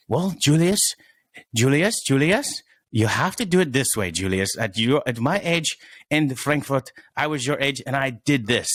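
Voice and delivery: put-on lightly done German-accented parent; playful fake German accent voice. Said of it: "that was my fake German accent".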